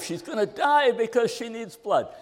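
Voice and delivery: a touch of frantic urgency; excited. Retold or imitated. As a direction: echo the man's panic. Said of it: "he was still excited about his wife".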